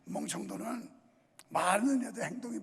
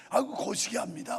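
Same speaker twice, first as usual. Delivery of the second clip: Jeolla dialect. Retold or imitated. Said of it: "말만 하면 거시기로 시작해서".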